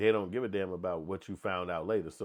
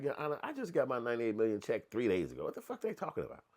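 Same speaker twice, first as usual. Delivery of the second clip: mock defendant in court; 2 semitones higher than usual.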